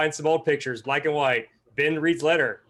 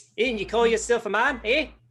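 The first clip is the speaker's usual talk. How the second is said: attempted New Zealand accent, pitched up; 7 semitones higher than usual. Asked for an australian accent, offering a new zealand accent attempt. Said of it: "I can do a New Zealand accent better".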